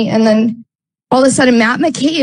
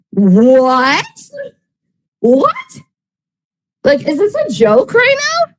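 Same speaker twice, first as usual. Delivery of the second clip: stunned disbelief; 6 semitones higher, much slower than usual. Retold or imitated. Stunned at accusation.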